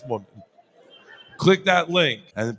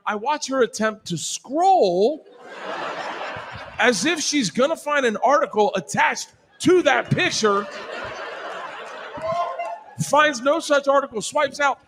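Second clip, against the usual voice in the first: laughing; 8 semitones higher than usual. Real, not acted. Storyteller cracking up mid-story.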